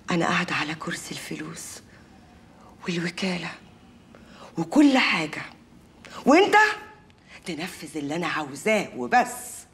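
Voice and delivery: hushed triumphant whisper; gloating whisper. Acted. Wife gloating in a whisper over the money. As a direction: whisper it like a secret victory.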